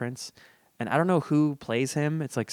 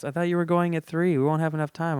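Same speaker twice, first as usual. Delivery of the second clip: a slightly put-on, higher complaining voice; lightly voiced girlfriend; 5 semitones higher than usual. Host retelling his girlfriend's objection, lightly voiced complaint. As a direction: lightly imitate a partner's objection, pitched up.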